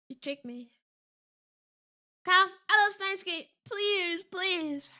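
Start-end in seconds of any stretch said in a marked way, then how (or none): 2.2-4.9 lightly voiced begging fan; pleading fan. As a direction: imitate a fan asking pitifully.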